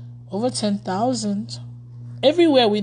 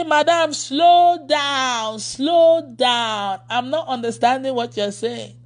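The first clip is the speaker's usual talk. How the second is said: higher, laughing plea to slow down; pleading slow down; 4 semitones higher, slower than usual. Retold or imitated. Pastor retelling begging her fast-talking helper. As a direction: beg the fast talker to slow down. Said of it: "I say".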